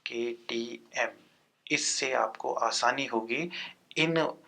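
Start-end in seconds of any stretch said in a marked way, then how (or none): 0.1-1.1 केटीएम whispered slowly, letter by letter. Shown as a demonstration. Teacher repeating the memory trick to students, whispered slowly. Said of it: "एक bike का नाम आपने सुना होगा".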